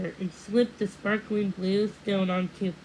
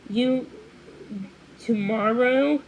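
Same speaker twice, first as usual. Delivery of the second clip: shocked stammering; 2 semitones higher, 6 dB louder than usual. A narrator's reading. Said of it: "too shocked to make such sense".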